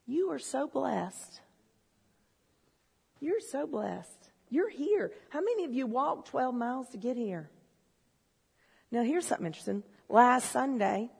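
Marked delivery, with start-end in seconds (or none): 0.1-5.1 slow, softer affirmation; tender. Real, not acted. Preacher to congregation, slow soft tender reassurance. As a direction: say it gently to each person.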